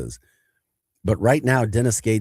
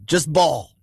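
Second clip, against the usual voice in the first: higher-pitched, mock-careless chant; teammate's call; 7 semitones higher than usual. Teammate repeating the defensive call, mock careless. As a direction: toss it off like a shrug. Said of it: "That was our defensive call".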